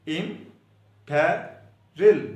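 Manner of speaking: imperil stretched out very slowly, syllable by syllable; slow, drawn-out imperil. Shown as a demonstration. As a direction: spell out imperil slowly for students. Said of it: "spelling सुन ले इसके".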